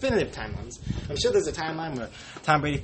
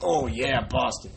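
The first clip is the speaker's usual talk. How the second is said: put-on faint Boston accent, lightly done; mock Boston accent; slower than usual. Podcaster's quick Boston accent, lightly done. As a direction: say it like a Boston fan, barely. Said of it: "that's my Boston accent".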